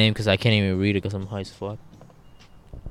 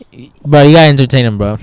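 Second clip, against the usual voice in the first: frat bro; 4 semitones higher, 13 dB louder than usual. Real, not acted. Hyping up friend opening bottle.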